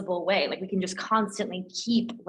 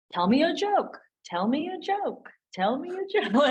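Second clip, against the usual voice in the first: repeated voice command; 8 semitones higher than usual. Retold or imitated. Testing voice AIs in an open office, high repeated command. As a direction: say it over and over, pitched up each time. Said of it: "again and again with these, these voice A Is".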